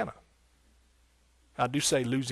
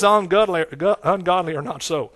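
preached emphasis; 3 semitones higher, 6 dB louder than usual. Acted. Preaching, loud.

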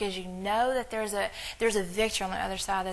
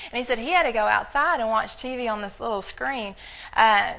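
usual speaking voice

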